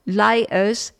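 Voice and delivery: put-on light East End London accent; a touch of Cockney farewell. Host saying goodbye to listeners, lightly put-on East End accent. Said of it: "as they would say in the East End".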